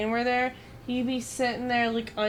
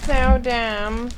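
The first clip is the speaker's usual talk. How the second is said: louder, fed-up outburst; loud gripe; 7 dB louder than usual. Real, not acted. Complaining aloud about the game's rule, loud and fed up. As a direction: blurt it out, exasperated.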